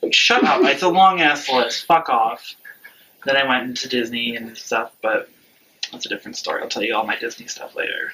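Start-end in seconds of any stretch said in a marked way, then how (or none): 0.1-2.6 mock annoyance. Real, not acted. Teasing friend off mid-list.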